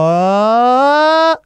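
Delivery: Oh pitched high and clean. Shown as a demonstration. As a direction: sing out a high, clear Oh for the student to copy. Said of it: "Repite conmigo".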